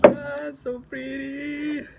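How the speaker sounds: slow loud awe; drawn-out delight. Real, not acted. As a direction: swoon out loud over it. Loud slow delight over cards.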